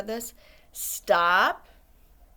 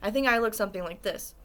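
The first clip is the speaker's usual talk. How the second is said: quick aside; faster than usual. Shown as a demonstration. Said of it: "What do you look like when you're surprised and hurt?".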